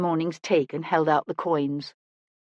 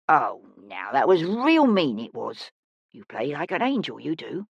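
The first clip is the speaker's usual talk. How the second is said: put-on consoling older woman; 4 semitones lower than usual. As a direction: soothe the child as a kindly old woman.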